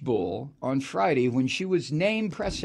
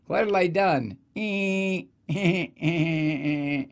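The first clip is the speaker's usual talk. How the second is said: sheepish grin voice; slower than usual. Retold or imitated. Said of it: "shit-eating grin on her face like".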